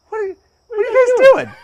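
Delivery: high, loud, nosy shout; Kevin. Retold or imitated. Storyteller voicing his friend confronting the crew, nosy. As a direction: imitate a blunt onlooker butting in. Acting out Kevin walking up, unfiltered.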